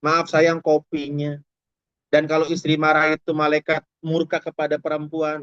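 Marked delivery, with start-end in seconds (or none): 0.1-1.4 slow, drawn-out wifely apology; meek, unraised voice. Acted. Wife serving coffee apologises to husband, meek and slow. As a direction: keep it level and unhurried, like a dutiful wife. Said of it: "tidak meninggikan suara".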